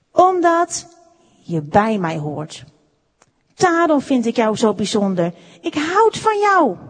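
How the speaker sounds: weight each phrase, lifting "Ik houd van jou"; emphatic. A narrator's reading. Maker explains his love to Wout, with "Omdat" emphatic. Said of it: "hij zei met nadruk".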